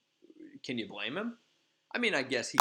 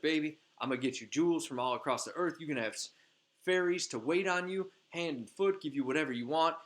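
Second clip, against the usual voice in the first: sweet-talking; 4 semitones higher, faster than usual. Retold or imitated. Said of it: "she starts sweet-talking him".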